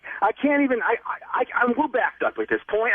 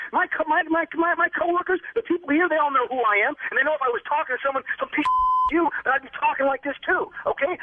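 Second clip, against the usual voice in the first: angry; 4 semitones higher than usual. Real, not acted. Victim quarrels with prank caller.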